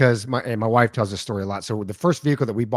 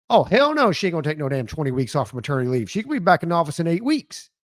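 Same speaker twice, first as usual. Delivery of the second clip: hammed-up outrage, jumping high on the opening; indignant refusal; 3 semitones higher than usual. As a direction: act out a sassy, scandalized refusal. Imagined indignant refusal of leave.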